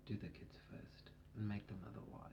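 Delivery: breathy unvoiced whisper, very soft. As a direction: lean in and whisper it. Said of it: "she says it in her whisper voice".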